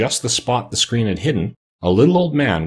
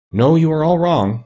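slow, higher-pitched meek protest; 8 semitones higher, 4 dB louder, slower than usual. A narrator's reading. Little man corrects the astonished friends, meekly. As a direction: meekly correct them, drawing it out. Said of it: "said the little man meekly".

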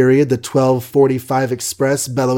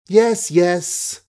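higher, quick eager yes; quick eager cry; 6 semitones higher than usual. A narrator's reading. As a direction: blurt it out eagerly, pitched up. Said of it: "Kathleen cried quickly".

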